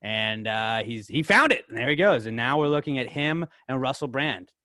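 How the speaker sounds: slow, deliberate play-by-play narration; mock radio commentary. Host narrating a phone search for listeners, mock dramatic commentary. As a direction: draw out the suspense like a commentator.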